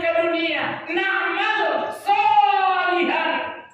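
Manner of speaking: high, crying-out plea to God; pleading from hell. Acted. People in hell beg Allah for release, pleading high. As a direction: call out high, stretching the final words. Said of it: "mereka mengatakan".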